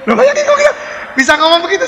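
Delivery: amazed exclaiming at the bold reply. Real, not acted. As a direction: marvel at the answer aloud.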